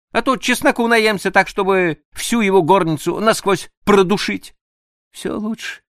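woman plotting to repel her husband; mischievous young woman. Acted. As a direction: relish each silly trick. Annushka scheming playfully.

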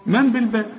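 من بالباب settled on a thin, fronted a; light ba. Shown as a demonstration. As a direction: end بالباب light, with a falling tune. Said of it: "هنا هنقول بالباء".

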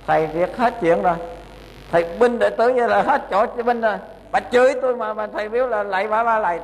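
hammed-up indignant retort to the monk; angry old woman. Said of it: "Bà cái nổi giận đứng dậy liền".

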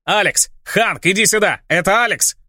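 громко, выше голосом, радостно зовёт друга; кричит от радости, зовя Ханка; радостный крик. Acted. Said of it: "и тот заорал". (радостно орёт в камеру, узнав Алекса)

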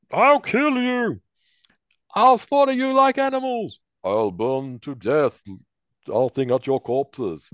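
high, loud, slow raging threats; murderous rant. Acted. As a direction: rage at them, drawn out. Prisoners fight among themselves.

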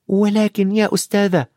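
put-on high-pitched boy's objection; Harry protesting. A narrator's reading. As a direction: start a boyish plea to the teacher. Pupil protests, is cut off.

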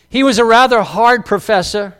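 slight Maine accent slipping out on "professor". Real, not acted. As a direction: let a touch of Maine drop the final r in "professor". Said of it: "That was my main accent slipping out there".

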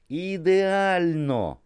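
a long, high, drawn-out cry of delight; delighted shout. A narrator's reading. Photographer thrilled by the model, shouts slow and high. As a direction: stretch it out high and loud, thrilled. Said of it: "крикнув Нікі".

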